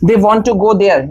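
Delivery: They want to go there, want and to kept apart and slow; slow uncontracted version for contrast; slow full form. Shown as a demonstration. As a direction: spell out the full form slowly. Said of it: "अगर ये wanna नहीं होता तो क्या होता".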